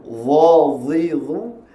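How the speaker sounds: "Dha, dhi, dhu" heavy, tongue arched to the palate; closed full sound. Shown as a demonstration. Teacher shows the itbaq quality, closed heavy "Dha, dhi, dhu". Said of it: "bunyi yang mengatuk".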